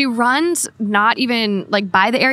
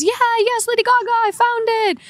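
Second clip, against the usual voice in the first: much higher, excited imitation of a French guy; 13 semitones higher than usual. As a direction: gush like the thrilled wine seller. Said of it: "And he goes".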